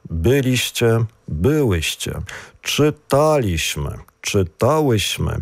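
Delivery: Byliśmy and czytałyśmy stressed third syllable from the end, BY-liś-my, czy-TA-łyś-my. Shown as a demonstration. Teacher listing examples, Rozmawialiśmy stressed on WIA, third from the end. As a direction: lean on the TA in Czytaliśmy, each example set apart. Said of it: "Наголос на третій склад від кінця".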